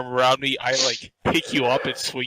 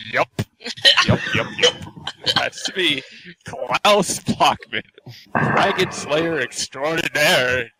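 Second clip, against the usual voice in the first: put-on drunken boast; 5 semitones higher, slower than usual. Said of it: "I say".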